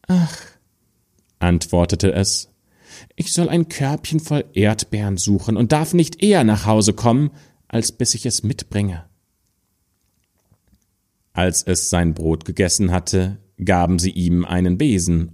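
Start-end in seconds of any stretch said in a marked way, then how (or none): 0.1-9.0 put-on a patient child explaining her errand; lightly voiced stepdaughter telling her task; good little girl.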